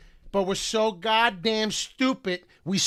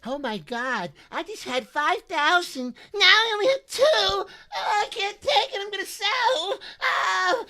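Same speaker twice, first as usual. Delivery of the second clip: much higher, mock panicked wail over lost money; panicking investor. Mocking viewers who panic-sell, as a shrill frantic investor. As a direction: play the frantic trader watching his portfolio crash. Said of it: "your portfolio going".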